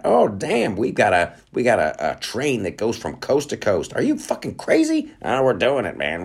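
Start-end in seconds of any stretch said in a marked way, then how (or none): 0.0-0.8 mock amazement. Foreign onlooker amazed. 3.9-6.2 high-pitched squeal of disbelief, way up; stunned disbelief. Acted. A rival country hearing about the coast-to-coast train, shrieking in disbelief.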